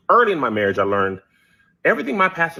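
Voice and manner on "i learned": ordinary talk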